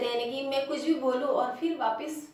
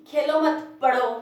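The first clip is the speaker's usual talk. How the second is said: खेलो मत said louder, short break, then पढ़ो; pause after मत; 3 semitones higher, 8 dB louder, slower than usual. Shown as a demonstration. Teacher demonstrates a comma, pausing after खेलो मत. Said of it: "अल्प विराम में मैंने अभी कहा था आपको".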